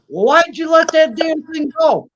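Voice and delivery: high, loud indignant shout; retold angry rancher yelling; rancher's shout. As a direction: yell it at him in disbelief. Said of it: "And he says".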